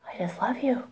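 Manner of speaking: soft whisper under his anger; whispered love. Retold or imitated. Answering her brother's attacks, a tender whisper. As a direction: let it fall gently, barely voiced.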